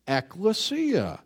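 ecclesia said slowly, ek-le-SEE-a; ecclesia drawn out as the Greek word. Shown as a demonstration. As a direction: lay out ecclesia slowly, syllable by syllable. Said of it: "That's a fifty cent word".

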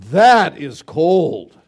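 slow, loud, appalled; shocked reaction. Retold or imitated. Listeners reacting to a harsh funeral remark, appalled and loud. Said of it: "we would like".

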